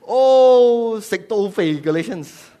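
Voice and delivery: high, loud drawn-out opening; mock exclamation. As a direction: wail the 'Oh' as if addressing a crowd. Mock versions of the rebuke.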